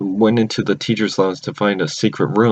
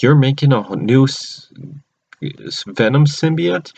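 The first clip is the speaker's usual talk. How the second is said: higher, halting questioning disbelief; retold incredulity; 4 semitones higher than usual. Character questioning the homemade symbiote, incredulous. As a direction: act out stumbling astonishment, pitch climbing.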